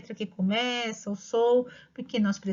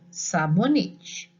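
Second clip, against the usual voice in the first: "sabonete" drawn out very slowly and a little louder, said whole; slow repeated dictation; 4 semitones lower, 3 dB louder, much slower than usual. Shown as a demonstration. Teacher repeating the dictated word to a child, slow and clear. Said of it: "Repete de novo".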